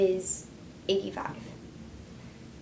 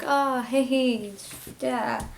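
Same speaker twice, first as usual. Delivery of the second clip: bright, higher, louder happy hello; imitating her own usual excitement; usual cheerful greeting; 4 semitones higher, 4 dB louder, much slower than usual. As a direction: greet him like he made your day. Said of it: "I usually am like".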